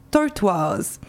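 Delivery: English-accented name, said under the breath. Real, not acted. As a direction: slip into an English accent on "Tortoise". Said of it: "Pardon pour mon super accent anglais". (nom anglais « Tortoise » prononcé avec l'accent anglais, à voix basse)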